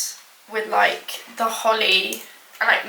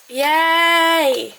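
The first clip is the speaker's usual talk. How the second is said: high, louder little yay; happy cheer; 6 semitones higher, 4 dB louder than usual. Real, not acted. Thrilled cook cheering her dessert, high and loud.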